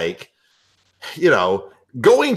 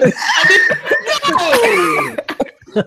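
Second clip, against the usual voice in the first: emphatic no; 4 dB louder, much slower than usual. Real, not acted. Emphatic denial.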